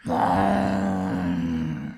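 long, very low resonant drone; deep sustained "wong" sound effect; huge booming hum. Acted. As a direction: boom out a distant echoing rumble. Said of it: "声音非常的大，这个回音缭绕啊".

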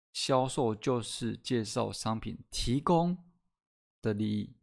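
slow read, 提供 and 利益 leaned on hard; stress on key words. Shown as a demonstration. Teacher reading the definition to podcast listeners, slow with heavy stress. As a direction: press each circled word, 提供 and 利益, slowly. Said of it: "所以我 加重音，代表说我圈起来的地方".

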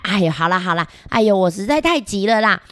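talking through a toothbrush; while brushing teeth. Acted. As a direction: mouth busy brushing teeth. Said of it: "哪有一边刷牙一边讲话的啦".

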